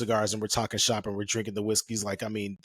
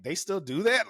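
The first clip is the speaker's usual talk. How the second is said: disbelief; 9 semitones higher than usual. Retold or imitated. Reacting in disbelief.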